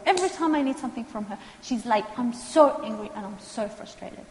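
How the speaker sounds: mock-angry client complaint; imitating an angry client. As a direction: play the fed-up client ranting about lateness. Client venting anger, voiced by counselor.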